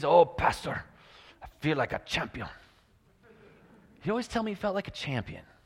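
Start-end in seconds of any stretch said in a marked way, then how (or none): 0.1-2.5 put-on loud, heavy Mexican accent, laid on thick. A pastor quotes a man from Puerto Rico, in a thick Mexican accent. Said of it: "he had this really thick Mexican".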